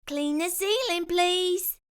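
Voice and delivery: lightly voiced bossy cook; Curly Locks voice. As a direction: lay down the rules kindly.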